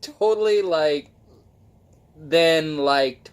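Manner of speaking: put-on high, bubbly valley girl drawl. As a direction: play a ditzy valley girl. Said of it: "like a blonde valley girl".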